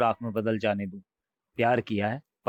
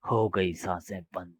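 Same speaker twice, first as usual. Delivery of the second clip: low, soft, slow ghostly verdict; menacing ghost; 4 semitones lower, 3 dB quieter than usual. Acted. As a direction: savour the last word. Ghost announces the death. (मौत का एलान करता भूत, धीमी भारी आवाज़)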